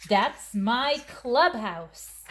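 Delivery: put-on proud child. Christina proudly claims her box.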